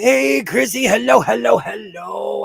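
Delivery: high, loud sing-song hello; bright, loud welcome call; calling out a greeting. Real, not acted. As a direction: call out to a friend arriving. Greeting viewers joining the stream.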